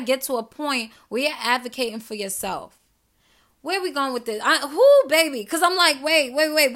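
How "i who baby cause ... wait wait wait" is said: surprised self-interruption. Real, not acted. Stops herself mid-rant.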